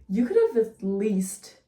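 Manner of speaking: exasperated complaint. Retold or imitated. Exasperated retold complaint about casting.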